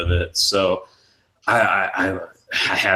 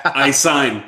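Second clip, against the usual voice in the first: a touch more insistent repeat of the offer; insisting actor; 3 semitones higher than usual. Retold or imitated. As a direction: press the offer a bit harder. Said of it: "and he comes".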